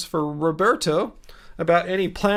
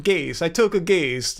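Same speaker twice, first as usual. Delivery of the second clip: mock Italian accent. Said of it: "It's kind of an Italian accent there".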